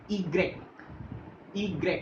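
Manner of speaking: ईग्रेक said as "ee-grek"; careful French letter name ईग्रेक. Shown as a demonstration. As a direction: give ईग्रेक a long "ee" and a crisp "grek". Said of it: "इसकी सबसे अलग pronunciation होती है".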